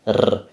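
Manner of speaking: rolled R, trilled on the tongue. Shown as a demonstration. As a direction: roll the R as a trill. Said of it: "that was a trill".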